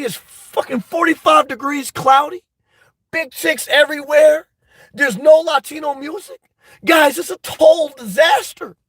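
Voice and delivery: a streamer spiralling into a real upset rant; getting upset. Real, not acted. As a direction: rant yourself into real frustration. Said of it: "I'm getting upset".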